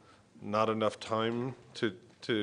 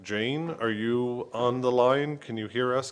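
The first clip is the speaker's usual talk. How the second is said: calling out; 3 semitones higher, 5 dB louder than usual. Real, not acted. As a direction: call out to someone on the line. Calling remote caller on line.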